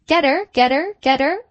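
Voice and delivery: high, loudish parrot chatter. A narrator's reading. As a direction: parrot echo with a rising end. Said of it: "said the parrot".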